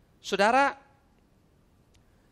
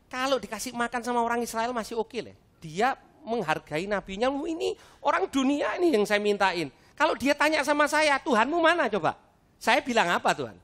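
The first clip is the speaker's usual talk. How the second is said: indignant complaint to God, climbing high and louder; mock protest; 7 semitones higher, 3 dB louder than usual. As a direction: argue your case, building from embarrassed grumble to high-pitched outburst. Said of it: "Saya protes begini". (protes kesal kepada Tuhan, makin tinggi)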